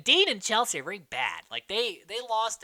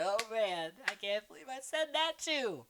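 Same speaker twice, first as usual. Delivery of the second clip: giggly quote; 6 semitones higher, 5 dB quieter than usual. Retold or imitated. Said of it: "she again just giggles like".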